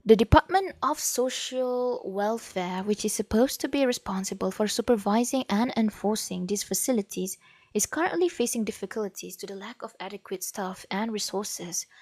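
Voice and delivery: reading aloud in accented English; formal read-out with an acquired English accent. Real, not acted. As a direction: let an accent creep into the English as you read. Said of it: "kenapa akak punya English ada accent".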